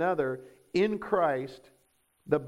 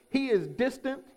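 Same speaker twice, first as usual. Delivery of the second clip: distant, lofty; 7 semitones higher than usual. Shown as a demonstration. Preacher teaches that God is above everything, lofty and emphatic. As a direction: lift the voice high and stretch it out to show distance.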